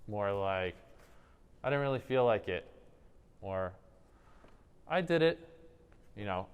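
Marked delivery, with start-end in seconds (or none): 1.6-2.7 "I didn't really feel like it" pitched up, unsure; passive upward inflection. Shown as a demonstration. Teacher giving an example of passive style, voice tilted upward. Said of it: "more upward inflection points". 4.9-5.5 "I did it" pitched high, as if asking; passive upward inflection. Shown as a demonstration. Teacher showing students a passive answer, high and questioning. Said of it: "Passive is going to be more upward".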